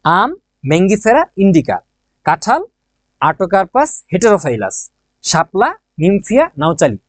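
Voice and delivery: slow, careful read-along of শাপলা, নিমফিয়া নাউচালি; teacher reading a Latin name slowly for students to repeat. Shown as a demonstration. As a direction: lead the class through each syllable slowly. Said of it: "আমার সাথে একবার পড়ো".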